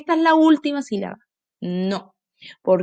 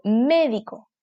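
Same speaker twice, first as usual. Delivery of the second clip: médico with stress on mé, slower; right stress; slower than usual. Shown as a demonstration. Teacher giving children the correct stress, slowly. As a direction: lean on mé in médico.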